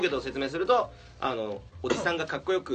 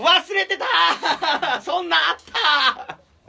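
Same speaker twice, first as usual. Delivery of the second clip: slow, loud, high laughing cry; laughing shout; 13 semitones higher, 9 dB louder, much slower than usual. Real, not acted. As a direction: burst out laughing while shouting. Suddenly remembers the corner.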